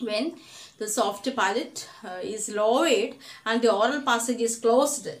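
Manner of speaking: very slow, word-by-word dictation for notes; slow textbook dictation. Shown as a demonstration. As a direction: read the definition out so students can write it down.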